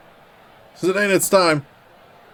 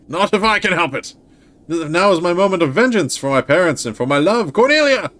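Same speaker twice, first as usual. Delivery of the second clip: dramatic high cry; 4 semitones higher than usual. Acted. Dramatic stage fight voicing.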